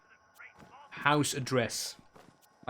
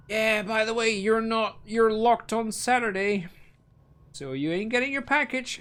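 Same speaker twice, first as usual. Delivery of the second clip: mock cheerful help desk; 7 semitones higher than usual. Help desk delivering bad news again.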